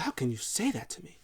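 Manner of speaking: a hushed offended plea; whispered hurt. Retold or imitated. Heyman hurt by the tribal chief, whispered. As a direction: whisper it, wounded. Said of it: "He's like".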